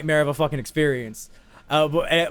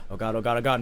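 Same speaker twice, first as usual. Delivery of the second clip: retold inner panic; 6 semitones lower, 6 dB quieter, faster than usual. Inner panic during withdrawals.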